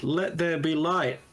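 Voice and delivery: ordinary talk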